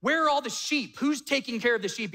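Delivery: high, scoffing taunt; mocking older brother. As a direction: ridicule the shepherd boy. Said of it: "In fact".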